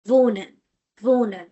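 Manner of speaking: "Wohnen" with the h silent; soft h. Shown as a demonstration. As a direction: model "Wohnen" as "vonen". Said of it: "mild sound of ha".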